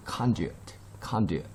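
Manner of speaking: conduit with the first syllable stressed. Shown as a demonstration. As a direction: lean on the opening "con" of conduit. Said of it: "여기에 스트레스가 있으니까". (conduit의 첫음절에 강세)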